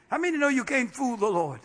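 ordinary talk, nothing marked

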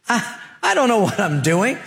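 a hint of hesitant protest; Moses. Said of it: "You know what Moses' answer was?".

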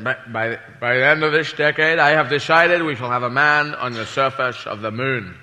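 lightly voiced Kennedy. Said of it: "President Kennedy said".

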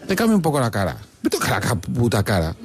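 normal talking voice

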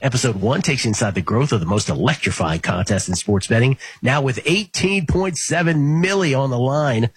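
upbeat promo read; network promo voice. Acted. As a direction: sell the show like a network promo. Sports betting promo read.

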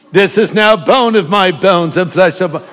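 mock-English recitation; attempted English accent, poetic. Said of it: "said it with an English accent".

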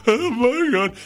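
weary groan. Retold or imitated. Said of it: "slumped in chairs going".

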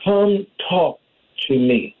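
lightly voiced God, slow and spaced. Spirit of God urging the believer, lightly voiced divine call. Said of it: "As the Spirit of God tells you".

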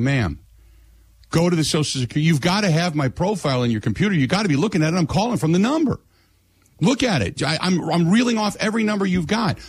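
retold exasperation, pitch climbing; exasperated caller. Retold quarrel with phone agent.

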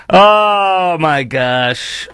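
slow drawn-out oh my gosh, laughing; amused groan. Real, not acted. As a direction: stretch it out, cracking up. Reacting to comedian's joke.

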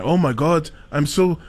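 attempted English accent; mock British accent. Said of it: "my English accent".

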